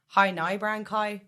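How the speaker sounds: Irish accent. Shown as a demonstration. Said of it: "And then Irish as well".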